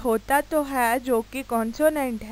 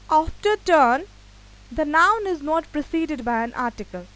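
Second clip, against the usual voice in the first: slow dictation; 3 semitones higher, 4 dB louder, much slower than usual. Shown as a demonstration. Dictates rule.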